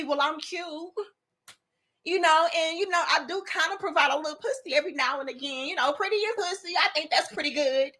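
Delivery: soft, quick, airy mock of a self-satisfied woman; mocking imitation. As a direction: lightly mimic her smug excuse, hushed and fast.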